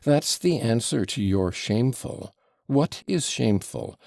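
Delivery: excited tirade. Acted. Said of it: "cried Fyodor Pavlovitch".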